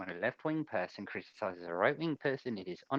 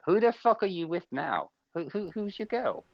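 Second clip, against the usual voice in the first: excited teasing; 7 semitones higher, 4 dB louder than usual. Real, not acted. Teasing friend about new partner.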